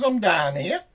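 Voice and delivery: high, tiny snail voice; small high-pitched creature; little voice. Acted. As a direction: pipe up from down on the doorstep. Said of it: "he hears this little voice".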